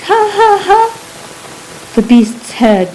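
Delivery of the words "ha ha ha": much higher fake laugh, said fast in fear; frightened child hurrying a fake laugh; quick forced laugh. A narrator's reading. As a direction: rush out the ha ha ha before he strikes. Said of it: "I spoke it again quickly".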